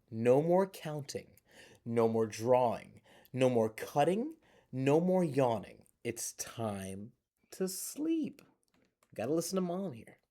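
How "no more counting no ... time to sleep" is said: firm, louder mom scolding; stern mom. Acted. Mom tells the child to stop and sleep, firm. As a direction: lay down the law like a tired mom. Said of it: "Mom groans and says".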